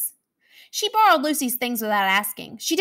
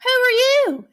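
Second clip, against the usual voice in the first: hissing monster; 13 semitones higher, 4 dB louder than usual. Acted. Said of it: "hissed a slimy monster".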